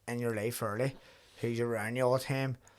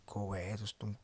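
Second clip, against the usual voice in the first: whispered brush-off; 2 semitones lower, 5 dB quieter than usual. Retold or imitated. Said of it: "I was trying to talk and I was just like".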